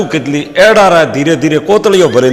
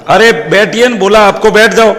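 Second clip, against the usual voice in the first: higher-pitched, mildly cross order; annoyed receptionist; 4 semitones higher than usual. Acted. Receptionist ordering a pestering guest to sit, annoyed. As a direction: tell him off with mild impatience. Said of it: "गुस्सा क्यों कर रही हो".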